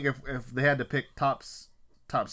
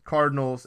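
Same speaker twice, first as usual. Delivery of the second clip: CARDinals with a louder first syllable; stress on CARD; 3 semitones higher, 5 dB louder than usual. Real, not acted. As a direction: lean hard on the Card in Cardinals. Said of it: "emphasis on the cards".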